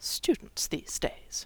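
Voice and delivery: muttering under her breath. The fat lady, as hermione dashes through her portrait: muttering. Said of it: "Hermione heard her mutter".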